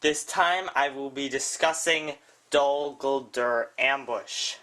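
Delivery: breathless, talking between gasps; out of breath. Real, not acted. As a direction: speak short of breath. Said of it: "out of breath yet again".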